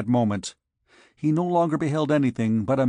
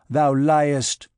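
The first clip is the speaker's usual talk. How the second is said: loud burst of fury; furious accusation; 3 semitones higher, 5 dB louder than usual. A narrator's reading. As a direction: hurl it out as an angry accusation. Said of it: "shook the arm of Phoebus in a fury".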